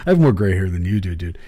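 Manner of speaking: indignant retort. Retold or imitated.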